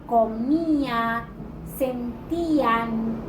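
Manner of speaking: "comía", "sentían" drawn out on the í; hiatus stressed. Shown as a demonstration. Teacher giving students examples of broken diphthongs, hiatus stressed. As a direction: stretch the í in "comía" and "sentían", apart from the next vowel. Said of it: "rompen el diptongo".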